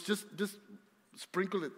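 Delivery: casual and matter-of-fact, "sprinkle it" tossed off lightly; mother-in-law, offhand. Retold or imitated. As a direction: shrug it off like a seasoned cook. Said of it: "Marina's mom, she goes".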